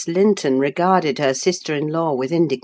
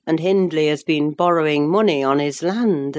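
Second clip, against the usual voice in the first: ordinary talk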